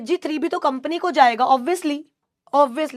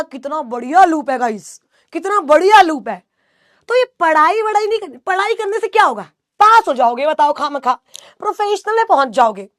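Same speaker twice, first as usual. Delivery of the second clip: sarcastic mock advice. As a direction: ham up the mock advice as a teasing joke.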